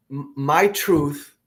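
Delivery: usual speaking voice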